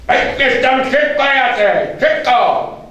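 high loud urgent monster voice; bossy octopus. A narrator's reading. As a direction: order him about, impatient. Octopus demanding food.

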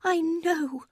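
rising, urgent mother's cry; cried out. A narrator's reading. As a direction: exclaim it, voice climbing. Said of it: "cried her mother".

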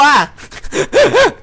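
high loud laugh at own fear; nervous laugh. Real, not acted. หัวเราะหลังบอกว่ากลัว. (หัวเราะกลบเกลื่อนความกลัว)

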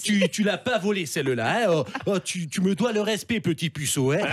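Bayrou impression. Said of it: "monsieur Bayrou".

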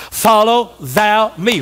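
each word spaced and emphatic; slow declamation. Acted. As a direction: say it slowly for the congregation to echo. Leads congregation in repeating verse.

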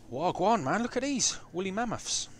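high-pitched excited exclamation; thrilled, voice shooting up. Real, not acted. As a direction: squeal at the amazing sight. Thrilled at seeing mammoths.

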